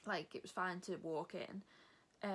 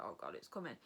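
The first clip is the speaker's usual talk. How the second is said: mock dread; 10 semitones lower, 3 dB quieter, faster than usual. Imitating vaccine dread.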